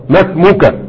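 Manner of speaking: "ما اسمك" as one word, masmuka; linked hamzat wasl. Shown as a demonstration. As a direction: glide from ma into smuka in "ما اسمك", no hamza. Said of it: "لكن لما تدخل خلاص". (وصل "ما اسمك" دون نطق الهمزة)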